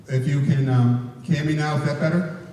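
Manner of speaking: speaking up so the back row hears; to someone hard of hearing. Real, not acted. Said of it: "Speak up, please".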